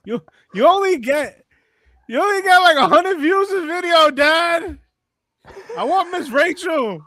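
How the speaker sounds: high, loud put-on kid's complaint; mock tantrum child. Voicing a crying daughter to her dad, mock tantrum. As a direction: play a bratty kid wailing at a parent.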